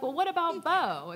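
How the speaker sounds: put-on a toddler eagerly checking on her brother; little daughter's voice. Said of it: "And then she was like".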